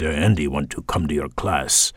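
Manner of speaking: imitating a Benin West African accent; heavy West African accent. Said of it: "with this heavy French, West African".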